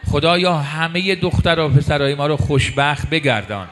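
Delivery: fervent pleading prayer voice. Acted. Preacher praying for childless couples in the audience, earnest plea. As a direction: pray aloud over the crowd, earnest and sustained.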